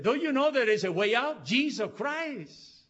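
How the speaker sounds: loud, high-pitched missionary proclamation, slowing on the name; retold urgent appeal.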